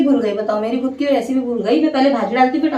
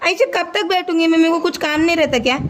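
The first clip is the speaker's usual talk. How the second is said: high calling of a name across the house; high-pitched call from the kitchen; 4 semitones higher than usual. Real, not acted. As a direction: call out to the daughter, rising on the name. Calling daughter from another room.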